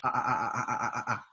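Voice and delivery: a string of plain "A" vowels; vowel A demo. Shown as a demonstration. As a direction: say "A" over and over as an evenly spaced vowel. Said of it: "todas estas son vocales A".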